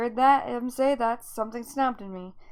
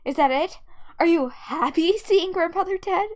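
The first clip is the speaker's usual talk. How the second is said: loud, heated questioning; angry accusation; 8 dB louder than usual. Acted. Daughter accusing dad of enjoying the death, angry accusation. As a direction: hurl each charge at him, voice raised. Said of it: "made me feel so angry".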